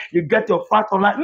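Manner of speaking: fact said on a rising, sing-song tune; mock-repeating the excuse, fact rising; mocking their line. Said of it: "Later you come out and say".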